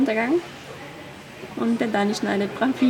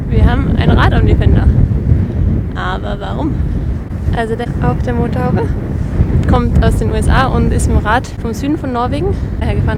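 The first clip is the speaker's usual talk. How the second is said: loud, raised voice against the wind; shouting over wind; 10 dB louder than usual. Real, not acted. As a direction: shout to be heard outside. Talking over howling wind.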